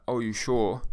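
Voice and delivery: plain questioning "you sure"; the wrong, doubtful take; doubting. Shown as a demonstration. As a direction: ask as if you really doubt them. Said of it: "I'm not saying it as in".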